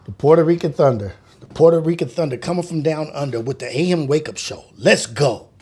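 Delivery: radio intro read with punch; announcer tagline. Shown as a demonstration. Streamer rehearsing his radio show intro. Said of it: "that's the tagline".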